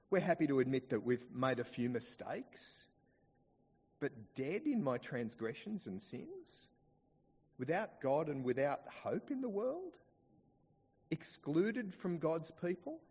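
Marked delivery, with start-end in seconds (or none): 4.0-13.0 incredulous questioning. Acted. Voices listeners balking at Paul's verdict.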